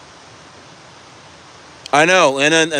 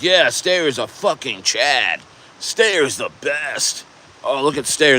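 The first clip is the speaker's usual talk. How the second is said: mock cheering fan; slower than usual. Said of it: "cheering you on and being like".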